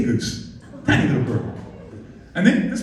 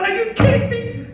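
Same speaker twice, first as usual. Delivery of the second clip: much higher, thrilled disbelief; overexcited disbelief. Retold or imitated. Photographer reliving the drinking herd, overexcited squeal. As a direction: squeal it as if you can't believe your luck. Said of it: "I'm sitting there going".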